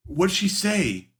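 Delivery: touching high-voiced question; high slow wistful voice. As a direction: ask it high and slow, longing.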